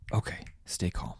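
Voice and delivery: hushed, breathy calming words to self; soft inner voice telling yourself to stay calm; calming self-talk. Retold or imitated. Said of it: "that quote kept popping up in my head".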